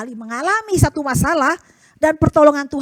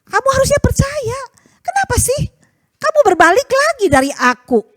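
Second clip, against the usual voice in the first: God pleading; 10 semitones higher than usual. Acted. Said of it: "Sama umatnya juga bilang".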